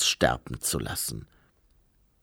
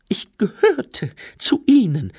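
high, louder correction on "gehörte"; correcting; 10 semitones higher, 5 dB louder than usual. A narrator's reading. Lady Lejeune correcting Susanne's accusation, high insistent stress on "gehörte". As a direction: put "gehörte" firmly in the past, high and insistent. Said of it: "korrigierte Lady Lejeune".

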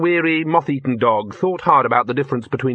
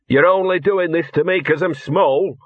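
a touch of whiny complaint, higher; complaining Gaspode; 6 semitones higher than usual. Acted. Gaspode carried by Laddie, mildly complaining. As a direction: grumble while dangling. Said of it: "Gaspode complained".

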